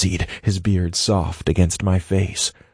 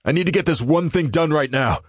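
serious tone; 8 semitones higher than usual. A narrator's reading. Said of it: "His serious tone".

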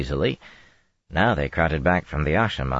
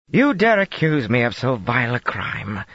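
high, outraged demand; indignant demand; 7 semitones higher than usual. A narrator's reading. Woman accused before the throne, indignant demand. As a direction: hurl the accusation back at them. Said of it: "Colbert demanded".

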